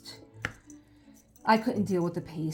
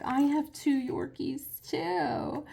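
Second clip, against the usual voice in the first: excited; 8 semitones higher, much slower than usual. Retold or imitated. Telling the dog owner excitedly.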